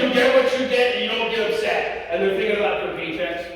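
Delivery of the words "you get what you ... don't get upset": impatient teacher. Retold or imitated. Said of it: "Or is the teacher like".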